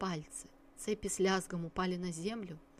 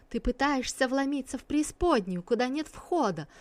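sinister hiss; 6 semitones higher, 4 dB louder than usual. A narrator's reading. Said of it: "зловеще прошипела Гусян".

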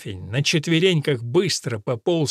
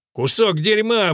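громкий выкрик, медленно и выше; медленно выкрикнуть ругательство; выкрикнул; 6 semitones higher, 4 dB louder, slower than usual. A narrator's reading. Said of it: "выкрикнул Элфрик". (громко и медленно выкрикнуть)

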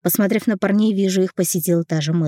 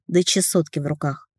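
usual speaking voice

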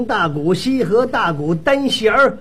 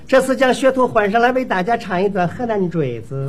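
mock stage introduction; 模仿演员报幕; 3 semitones lower than usual. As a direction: announce it like a ballad singer taking the stage. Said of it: "我连那位演员上场都学一学啊。". (学曲艺演员开场报幕)

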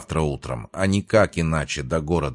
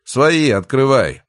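loud, drawn-out, higher call; calling through door; 8 semitones higher, 7 dB louder, slower than usual. Acted. Father at the door to those inside, calling out. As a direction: call out slowly to be let in.

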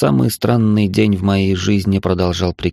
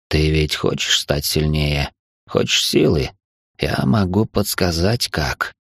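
slow hissing shadow voice; creeping nightmare whisper; 3 semitones lower than usual. Acted. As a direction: hiss it like a lurking shadow. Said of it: "прошипел сгусток тьмы".

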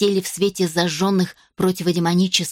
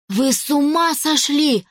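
higher, slow, alarmed outcry; shocked exclamation; 6 semitones higher than usual. A narrator's reading. Young man exclaims at the villainess in alarm. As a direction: blurt it out in disbelief. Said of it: "воскликнул Мэтт".

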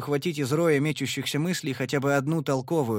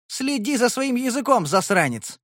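much higher and louder, furious; furious warning; 10 semitones higher, 5 dB louder than usual. Acted. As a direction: snap a threat. Twin after hitting him.

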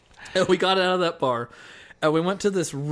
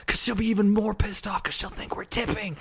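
put-on drunk scolding; 7 semitones higher than usual. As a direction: scold a friend, tipsy. Drunk self scolding friend.

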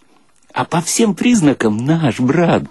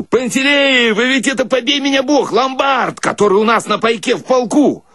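high excited call, raised pitch; shouting across the theatre; 12 semitones higher than usual. Retold or imitated. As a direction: call out to an old army friend in surprise. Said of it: "Я глянул в оркестр и кричу". (радостный выкрик)

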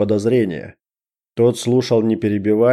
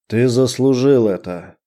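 slow mocking smirk; 2 semitones higher than usual. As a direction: sneer the words slowly. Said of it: "усмехнулся боевик".

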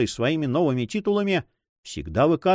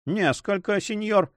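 cheeky, pitched higher retort; insolent; 7 semitones higher than usual. A narrator's reading. Don Philipp answers Gaston insolently, mildly mocking. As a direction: toss it back with a sneer. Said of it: "дерзко ответил Дон Филипп".

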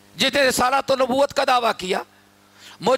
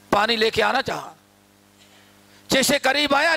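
ordinary talk, nothing marked

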